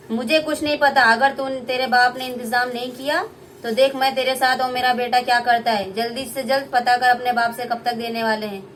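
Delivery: mother-in-law threatens bride; threatening mother-in-law. Acted.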